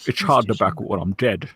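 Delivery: Sean Connery impression. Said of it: "That's a great Sean Connery accent".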